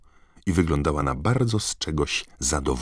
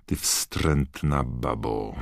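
slow, seething through gritted teeth; 2 semitones lower, much slower than usual. Acted. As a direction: hiss the insult through teeth. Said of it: "wycedziła przez zęby".

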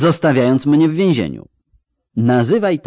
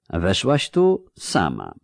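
calm; 2 semitones lower, 3 dB quieter, slower than usual. Acted. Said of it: "potwierdził spokojnie".

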